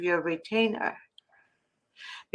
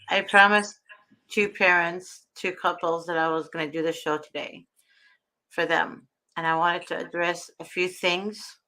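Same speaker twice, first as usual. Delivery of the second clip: sore mouth after dental work; struggling to form words through pain; swollen mouth. Real, not acted. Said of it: "it's swollen".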